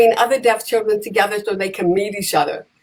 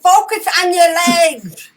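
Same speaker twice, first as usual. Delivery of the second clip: coaching call; 7 semitones higher, 4 dB louder than usual. Retold or imitated. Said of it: "I'm going".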